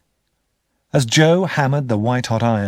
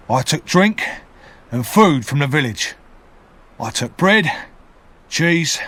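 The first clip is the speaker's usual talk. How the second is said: convict owning up, a bit higher; lightly voiced convict confessing; 4 semitones higher than usual. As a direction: confess it plainly to protect the boy.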